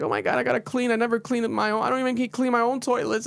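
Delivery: high, whiny mock crying; dramatic whine. Mocking a reality star crying about toilets, high whiny voice. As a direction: imitate a spoiled girl whining about cleaning. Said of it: "she's so dramatic".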